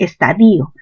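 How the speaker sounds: estadio said slowly as es-ta-DI-o; stress on I. Shown as a demonstration. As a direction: stretch the i in estadio. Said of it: "con tilde en la i".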